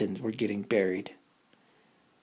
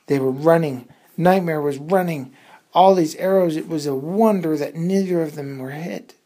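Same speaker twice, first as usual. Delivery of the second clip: louder, higher urgent telling; excited chase narration; 4 semitones higher, 7 dB louder than usual. A narrator's reading. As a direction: pour on the tension. Arrows chase resumes.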